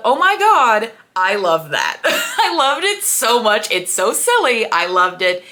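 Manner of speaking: loud, laughing delight; gushing excitedly. Real, not acted. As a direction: gush with glee. Gushing about favorite detail.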